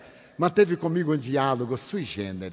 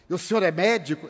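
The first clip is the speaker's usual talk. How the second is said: escárnio; faster than usual. Retold or imitated. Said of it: "com certo escárnio".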